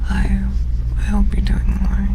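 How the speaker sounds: gentle high, airy voice. Shown as a demonstration. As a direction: go soft and high, nearly whispered. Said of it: "if I do a soft voice and go a little higher pitched".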